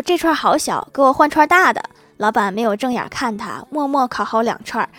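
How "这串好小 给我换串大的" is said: higher, pushy customer voice, louder toward the end; sharp, picky demand. Acted. Picky woman ordering the squid vendor, sharply demanding. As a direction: order the vendor around, fussily. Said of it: "很尖刻地命令老板说".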